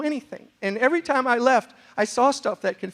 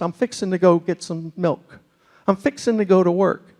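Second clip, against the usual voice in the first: Texan fixin'. Retold or imitated. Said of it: "every sentence is".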